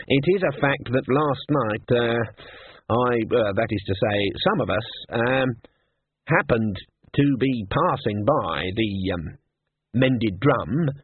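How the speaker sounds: evasive wizard, full of hesitations; halting confession. Acted. Senior wrangler owns up to Ridcully, halting. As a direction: hedge and stall, slowly owning up.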